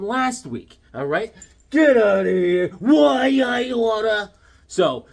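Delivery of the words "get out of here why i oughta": louder, hammed-up gruff threat; mock angry outburst. Vlogger reacts to the poll like an angry cartoon, loud and hammy. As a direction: play a cartoon tough guy losing it.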